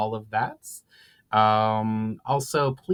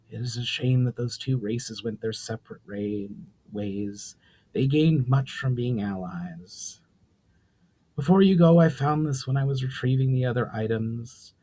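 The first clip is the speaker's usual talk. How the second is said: even, measured storyteller's read; story narration; 3 dB louder than usual. A narrator's reading. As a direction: tell the tale steadily to listeners.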